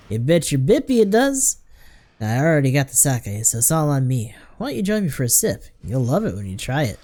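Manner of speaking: folksy boozer with lively pitch swings; jovial drinker. Acted. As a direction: talk them into a sip.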